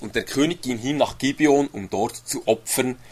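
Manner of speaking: measured, solemn reading of the verse; steady formal Bible reading; scripture reading. Acted. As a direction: read it like scripture from the pulpit. Reads Bible verse aloud.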